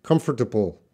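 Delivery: British Comfortable with a crisp t in the middle, KUM-fuh-tuh-bul; British pronunciation. Shown as a demonstration. Teacher shows students the British way to say Comfortable. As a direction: sound out Comfortable the British way, t clearly hit. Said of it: "British sound".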